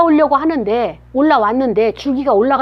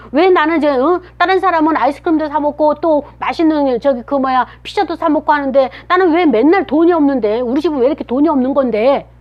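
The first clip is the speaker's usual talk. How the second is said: mock whiny complaint; 2 semitones higher than usual. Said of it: "짜증을 내고 불평하고".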